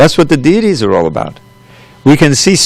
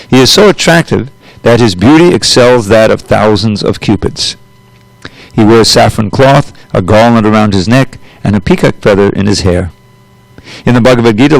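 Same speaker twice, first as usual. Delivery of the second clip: scripture reading. Acted. Teacher reading the purport to students, formal reading voice. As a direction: read the holy text steadily to the class.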